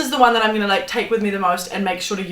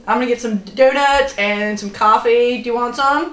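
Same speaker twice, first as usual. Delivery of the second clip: a touch of Southern American twang, louder; Nashville accent; 2 semitones higher, 5 dB louder than usual. Pretend. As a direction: play a chatty Love Island American with a Nashville accent. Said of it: "It's like Nashville".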